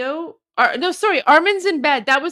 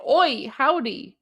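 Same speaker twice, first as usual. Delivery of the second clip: Australian greeting; slower than usual. Pretend. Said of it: "how do you say hello in Australian".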